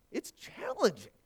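high, slow stretched delivery; drawn-out emphasis. Acted. Preacher stressing how hard the world is, drawn out. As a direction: stretch it out for effect.

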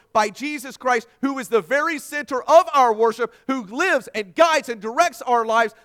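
loud, high, driving sermon delivery; climactic preaching. Real, not acted. Preacher closing the sermon before worship, climactic preaching. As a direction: pile up the phrases with full force.

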